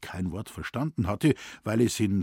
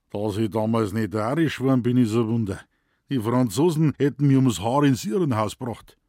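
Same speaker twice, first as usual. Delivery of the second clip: loud exasperated Bavarian grumble; Bavarian forester; 6 dB louder than usual. A narrator's reading. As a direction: grumble it like a fed-up old Bavarian. Moosbichler voiced, exasperated. (laut verzweifelter bayerischer Förster)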